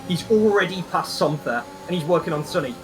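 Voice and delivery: steady broadcast race analysis; motorsport commentator. Acted. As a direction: narrate the race for viewers.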